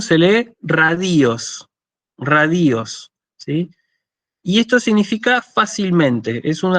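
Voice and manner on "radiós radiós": slow "radios", leaning on a drawn-out final "os"; demonstrated reading. Shown as a demonstration. Teacher showing how the Greek adverb is read, slow careful pronunciation. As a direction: model "radios" carefully, twice, with a pause between. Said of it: "¿cómo se lee esto?".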